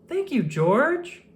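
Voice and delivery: put-on high, slow, sweet girl voice; a shy girl thanking her friend; grateful little Lucy; little girl thanks. A narrator's reading.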